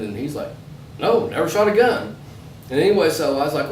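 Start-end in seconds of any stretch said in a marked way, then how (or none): 1.0-2.2 higher-pitched imitation of an Irish accent. Storyteller quoting the Irish guy's reply, imitated Irish accent. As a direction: put on a light Irish lilt. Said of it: "talking in this Irish accent".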